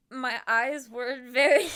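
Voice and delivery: slow, loud fake Boston slip; fake Boston accent. Real, not acted. Storyteller slipping into boss's accent, fake Boston breaking into laughter. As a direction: slide into fake Boston and crack up. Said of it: "It's a fake Boston accent".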